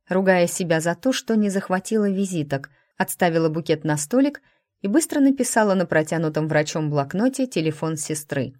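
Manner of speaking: usual speaking voice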